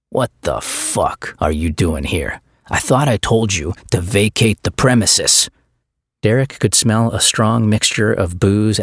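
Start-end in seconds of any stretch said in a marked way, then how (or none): 0.1-5.5 menacing Stryker. Acted. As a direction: lean in close and threaten. Stryker confronts Derek face to face.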